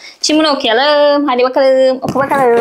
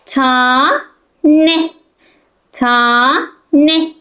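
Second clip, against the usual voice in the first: repeat after me; much slower than usual. Shown as a demonstration. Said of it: "beraber tekrar edelim".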